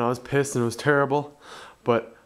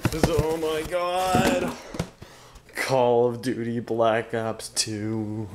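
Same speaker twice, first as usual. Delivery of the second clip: slow, hushed awe; awed murmur; 3 semitones lower, much slower than usual. Real, not acted. Fan gazing at the box, slow and awed. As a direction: savour every word in wonder.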